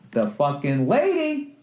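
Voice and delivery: drawn-out, rising incredulous squeal; exasperated disbelief. Acted. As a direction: stretch it out in mounting disbelief. Ranting about missing child seat.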